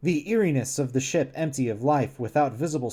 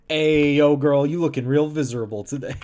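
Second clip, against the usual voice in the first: flirty catcall; 5 dB louder than usual. Pretend. Jokey flirting bit.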